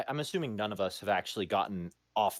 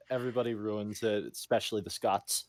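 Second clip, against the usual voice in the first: ordinary talk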